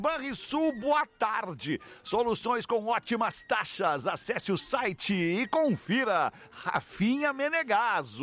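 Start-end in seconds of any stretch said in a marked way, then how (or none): 2.0-8.2 slow radio ad read; announcer reading a sponsor. Acted. Reads sponsor ad slowly. (leitura de anúncio)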